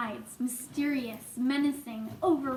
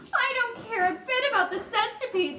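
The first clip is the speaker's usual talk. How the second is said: mildly voiced sob; 8 semitones higher than usual. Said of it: "the earthworm sobbed".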